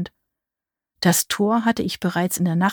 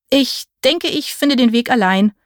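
higher-pitched, mildly nervous excuse; nervous stammer; 6 semitones higher, 3 dB louder than usual. A narrator's reading. Visitor excuses himself to flee the witch, nervous stammer. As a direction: falter a little as you back away. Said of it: "stammelte ich und wollte weglaufen".

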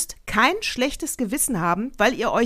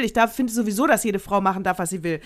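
normal talking voice

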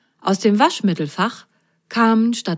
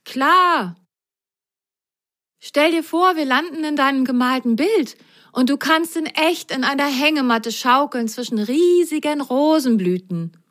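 put-on higher, eager boy's voice; encouraging Grasgrün; 7 semitones higher than usual. Grasgrün coaxes his friend, eager and higher. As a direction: talk her into it brightly. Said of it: "ermunterte Grasgrün seine Freundin".

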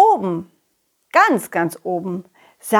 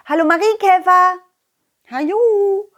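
bright greeting; 8 semitones higher than usual. Acted. Greeting the ladybird.

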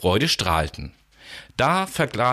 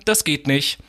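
firm refusal by stars; 4 semitones higher than usual. Acted.

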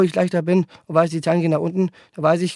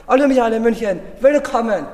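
arena greeting; 5 semitones higher than usual. Pretend. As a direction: pretend concert announcer shout. Imagined concert, greeting the arena.

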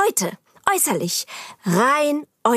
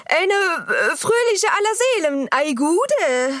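hessischer Dialekt; 4 semitones higher than usual. Acted. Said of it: "ich probier's mal".

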